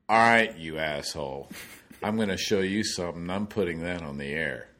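imitated booming producer voice; booming first words, then easing off, retold; Frank Chirkinian. Producer answering the French hole opening, mock booming. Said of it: "Frank's booming voice comes through".

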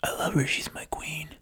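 conflicted Jon. Retold or imitated. Jon torn about his queen.

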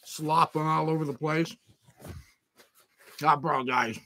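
chewing while greeting viewers; mouth full. Real, not acted. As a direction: talk around a mouthful of food. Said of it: "I'm talking with my mouth full".

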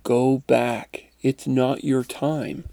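slow, lightly voiced message from beyond; clearer mysterious voice. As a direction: say it clearly and unhurriedly, lightly in character. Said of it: "much more clearly".

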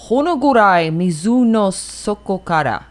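Japanese title in a mild samurai voice. Shown as a demonstration. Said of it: "like, a samurai voice with this".

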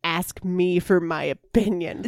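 slow, insistent sulk; drawn-out self-pitying comeback; mock petulance. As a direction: spell out the grievance word by word. Acting own petulant comeback.

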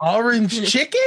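slow, dubious Australian imitation; attempted Australian accent. Shown as a demonstration. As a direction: try an Australian accent, rising questioningly. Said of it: "That's supposed to be Australian".

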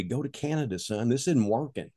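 hushed, confidential aside; imitated whisper. Military guy in red sash advising a draftee, hushed. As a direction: pass it on quietly, like a secret. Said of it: "he whispered to me".

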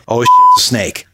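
high, jolted mock alarm; retold alarm. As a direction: act out a sudden snake scare. Retold alarm at friend's scream.

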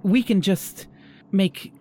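high, breathless wooing; lovestruck host. Acted. Host woos guest.

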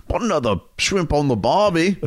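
put-on tossing off a cheesy Aussie cliché in a broad accent; Australian accent. Host asked for his Australian accent, does a hammed-up Aussie line. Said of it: "whip out your Australian accent".

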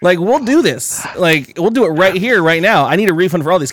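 high, pushy sarcastic voice; mock sarcastic demand. Teller mocking staff at window, high sarcastic demand. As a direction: taunt the staff with fake eagerness.

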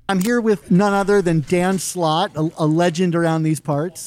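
muffled by a face mask; talking through a mask. Real, not acted. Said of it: "we are both talking through masks".

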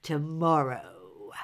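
low, slow giant growl; a giant's low threat. A narrator's reading. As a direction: drag the word out deep like a menacing giant. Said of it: "he growled".

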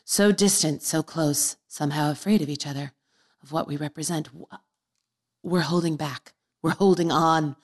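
measured verse recital with pauses; dramatic poem reading. Acted. Reading a poem given to a boy, dramatic recital. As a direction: recite it line by line, earnestly.

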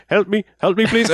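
high, strained mock German cry for help; a hammed-up German plea, pitched high; bad German accent. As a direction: ham up a drowning German villain. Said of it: "doing a really bad, you know, German accent".

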